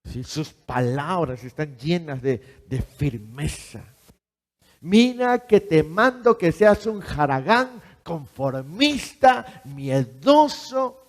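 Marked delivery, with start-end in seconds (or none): 4.8-11.0 ironic fake verse, stretched out slowly; mocking false version of the verse; mock misquote. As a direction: twist the scripture sarcastically. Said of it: "Así dice la palabra. No".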